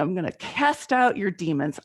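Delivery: lightly voiced preacher, proclaiming with emphasis on out; a hint of a revival preacher casting out demons; mock Southern preacher. To the screaming neighbor, a light mock Southern preacher. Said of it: "I was gonna be a Southern preacher".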